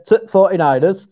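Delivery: "To forty-niners" with Yorkshire short T for THE; Yorkshire accent. Shown as a demonstration. Co-host flags his dialect, Yorkshire accent. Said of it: "that's for the Yorkshire".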